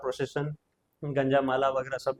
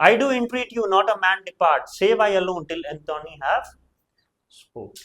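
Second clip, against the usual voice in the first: slow, louder theatrical plea; Brutus entreating; 3 semitones higher, 3 dB louder, much slower than usual. Shown as a demonstration. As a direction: plead with the crowd slowly like Brutus on stage. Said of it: "तो वो देने जा रहा है".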